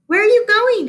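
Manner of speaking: high, loud call across the playground. Acted. Yard teacher calls after a girl leaving the playground, loud call. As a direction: call out to her from a distance.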